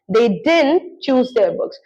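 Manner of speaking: very slow, each word apart; slow model sentence. Shown as a demonstration. Teacher models past negative, very slow. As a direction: say it slowly for learners. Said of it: "past में अगर मैं बोलूंगी".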